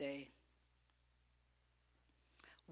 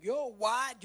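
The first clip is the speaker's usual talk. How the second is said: mock indignant; 5 semitones higher, 11 dB louder than usual. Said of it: "You get real ugly".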